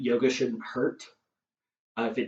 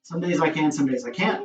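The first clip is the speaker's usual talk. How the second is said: breathless, winded talk; out of breath. Real, not acted. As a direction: speak between heavy breaths. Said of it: "I'm out of breath".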